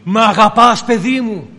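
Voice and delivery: loud retold call, easing off at the end; Ο Κύριος calling out. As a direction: call it insistently into the listener's ear. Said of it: "σου φωνάζει στο αυτί".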